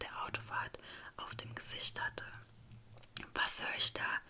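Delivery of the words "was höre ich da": emphatic whispered taunt from the grandmother; cackling grandmother. A narrator's reading. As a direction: push the whisper, menacing grandmother. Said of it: "gackerte sie". (gackernde Großmutter, geflüstert)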